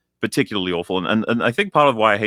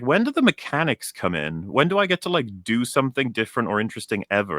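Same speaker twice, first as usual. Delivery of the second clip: higher mock whine of a bored player; exasperated; 4 semitones higher than usual. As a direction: plead for something new, fed up. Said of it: "I remember being like".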